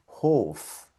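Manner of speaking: "Hof" with audible H and long o; sounded H. Shown as a demonstration. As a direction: model "Hof" slowly in German. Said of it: "La H con la O".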